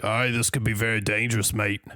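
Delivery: hammed-up Australian bloke; light Australian accent; mock Aussie. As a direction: play up an Australian accent for laughs. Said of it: "I'm not gonna do the accent".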